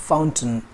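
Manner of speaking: "फाउंटेन" as FOWN-tun, short second syllable; correct pronunciation. Shown as a demonstration. Teacher modelling "फाउंटेन" for learners as FOWN-tun. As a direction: reduce the end of "फाउंटेन" to "tun". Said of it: "इसका pronunciation जो है वो है".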